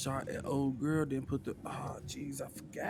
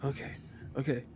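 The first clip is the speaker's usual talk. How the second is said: calming down; faster than usual. Acted. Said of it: "start at this point to calm down".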